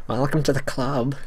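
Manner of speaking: slow, lightly nerdy voice; a hint of a stiff nerd. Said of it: "the straight up nerdy, nerdy voice?".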